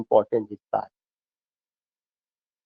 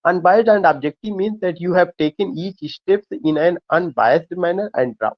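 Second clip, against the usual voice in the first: reading a textbook line slowly, word by word; slow dictation reading; much slower than usual. Acted. Teacher reading a definition aloud to his students, slow and deliberate. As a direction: dictate it so students can follow. Reads English definition to class.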